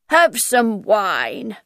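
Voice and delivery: slow, polite offer; drawn-out polite invitation; politely. Acted. Hatter politely offering Alice wine, slow and courteous. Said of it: "the Mad Hatter said politely".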